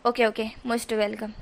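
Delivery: gruff dismissive reply to John's thanks; curt offhand thanks. Acted. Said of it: "ज़रा प्यार से बोल।".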